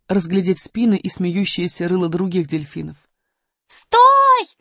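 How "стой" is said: high loud barked stop; growled command. Acted. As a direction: roar at them to stop. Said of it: "рычал робот". (рычащий окрик)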